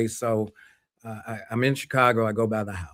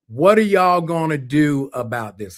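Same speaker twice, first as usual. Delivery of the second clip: imitated mother calling through, higher and louder; slow, raised call from the kitchen; voice carrying from another room; 5 semitones higher, 5 dB louder than usual. Mother engaging two men from the kitchen, voice carrying. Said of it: "you can hear her voice carry from the kitchen".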